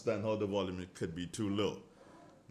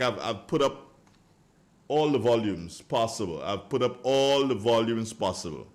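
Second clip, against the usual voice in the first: insistent; 5 dB louder than usual. Real, not acted. Insisting volume is maxed out.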